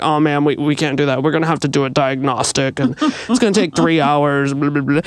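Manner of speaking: a hint of a bored service guy. Car dealer turning down her request, mildly mocking. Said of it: "He's like".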